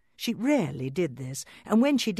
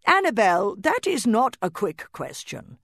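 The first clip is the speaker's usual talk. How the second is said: calling from afar; 6 semitones higher, 6 dB louder than usual. Acted. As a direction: call out from another room. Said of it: "called Papa Doll from somewhere".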